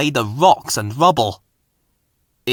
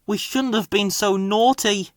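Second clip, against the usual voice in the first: ashamed; 8 semitones higher, 3 dB quieter than usual. A narrator's reading. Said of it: "said Bill".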